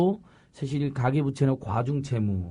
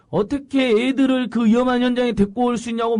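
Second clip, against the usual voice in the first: 높아진 목소리로 따져 묻듯 흉내; 상대를 몰아세우는 말을 옮기듯, 높게; 다그치는 말투 흉내; 9 semitones higher, 4 dB louder than usual. Retold or imitated. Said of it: "막 다그치고 따지는 거예요". (높은 톤으로 다그치는 흉내)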